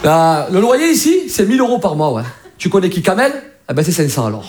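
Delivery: mock Marseille landlord. Marseille landlord quotes rent to a friend, casual Marseille accent. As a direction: haggle chummily with a Marseille accent. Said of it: "Alors qu'un mec à Marseille".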